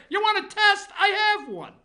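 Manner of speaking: hammed-up doctor at a briefing; mock Fauci. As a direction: lord it over the press like the boss of the world. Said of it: "he stands up there".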